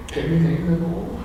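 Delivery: asks with a chuckle in the voice; laughing. Real, not acted. Interviewer teasing the guest about rain words, laughing. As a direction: tease the guest through a laugh.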